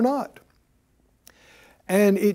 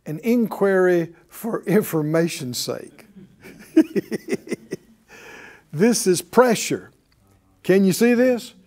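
ordinary talk, nothing marked

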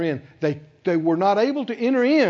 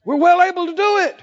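bold declaration; 10 semitones higher, 6 dB louder than usual. Retold or imitated. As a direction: declare it with full confidence. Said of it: "Caleb said".

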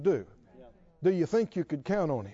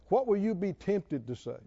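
laughing. Real, not acted. Preacher laughing mid-question.

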